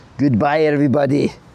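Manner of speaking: put-on poor Scottish accent. Saying goodbye to everybody after remembering being in Scotland: bad Scottish accent. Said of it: "my Scottish accent sucks".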